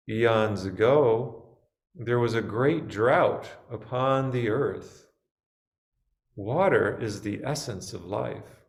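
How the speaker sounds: measured storytelling with spacious pauses; story narration. A narrator's reading. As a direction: read it as a meditative tale, phrase by phrase. Reads the story for meditation.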